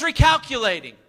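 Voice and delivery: the British lady on the phone announcing a missed turn; British GPS voice. Retold or imitated. Preacher imitating his British GPS lady, announcing a reroute. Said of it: "But she says".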